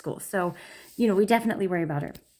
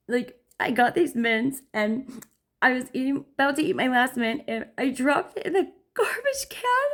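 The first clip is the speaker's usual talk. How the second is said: imitating tearful daughter; 5 semitones higher than usual. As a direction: voice climbs to a high teary whine.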